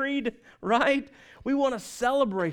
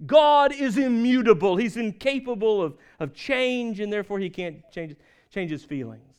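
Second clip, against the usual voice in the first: pompous; 4 dB louder than usual. Retold or imitated. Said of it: "in a very pious and pompous voice".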